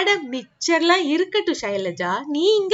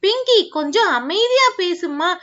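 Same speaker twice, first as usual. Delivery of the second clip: calm soothing; 2 semitones lower than usual. Acted. Father calming daughter.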